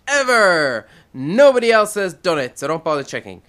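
booming self-important leader address; ranting dictator speech. Acted. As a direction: proclaim it like a glorious dictator. Grandiose broadcast to Earth.

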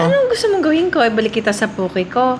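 fast, panicked line reading; rushed line. Shown as a demonstration. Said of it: "tell me nga the line".

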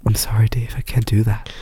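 lightly voiced, level computer voice; a hint of movie-computer monotone; HAL. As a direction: impersonate a calm film computer refusing. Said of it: "Two thousand one, Space Odyssey".

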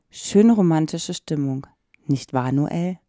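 low, slow, creepy sweet voice; psychopath voice. Pretend. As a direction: croon it like a slasher killer. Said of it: "Du klingst grad wie ein Psychopath". (tief und langsam, unheimlich süßlich)

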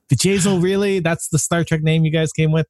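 high, incredulous "really?". Retold or imitated. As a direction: scoff at the silly name. Mocking the character name.

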